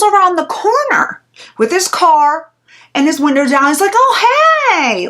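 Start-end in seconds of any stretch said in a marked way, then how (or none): 4.0-5.1 high, breezy fake-friendly hey; mock casual creep. To Leah from his car window, mock breezy greeting. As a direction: play it off as a chance meeting.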